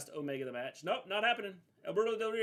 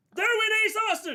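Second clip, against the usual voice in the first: very loud, very high, shrill yelling; 11 dB louder than usual. Breaking off a wrestling discussion to call out what just happened, yelling. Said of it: "why are you yelling".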